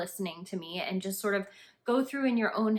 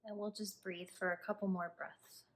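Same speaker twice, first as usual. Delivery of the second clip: calm, hushed instructions, leaving space to breathe; guided meditation; 2 semitones lower, 7 dB quieter than usual. Acted. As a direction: guide the listener gently through a body scan, unhurried. Leads a body scan meditation.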